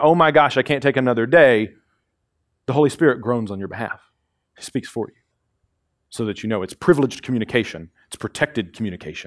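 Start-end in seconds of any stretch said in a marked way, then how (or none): 0.0-1.7 worked-up, agitated crying out, acted. Describing someone too worked up to pray: imitating someone yelling. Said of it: "when she's yelling".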